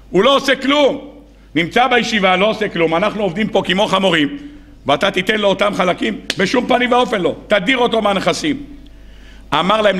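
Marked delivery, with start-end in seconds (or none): 0.1-8.6 indignant protest. Retold or imitated. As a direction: protest with rising pitch and outrage. Brothers protest to their father.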